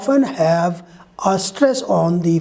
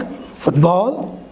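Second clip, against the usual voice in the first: FOOT-ball, first part stronger, ball lower; stress on FOOT; 4 semitones lower than usual. Shown as a demonstration. Teacher giving a compound noun example, stress on FOOT in football. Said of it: "Foot will be pronounced louder".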